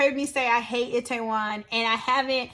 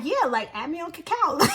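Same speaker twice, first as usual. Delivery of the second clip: gleeful shout; 5 semitones higher than usual. Retold or imitated. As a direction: show off the new app, delighted. Flirting men, showing off app.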